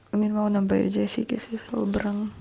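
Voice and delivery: soft unvoiced whisper. Real, not acted. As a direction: whisper so no one wakes. Early morning hotel room whisper.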